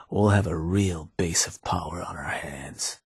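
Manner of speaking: hushed, scheming whisper; low whispered promise of power; conspiratorial whisper. Acted. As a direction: lean in and breathe it like a secret plan. Scheming about a base of power.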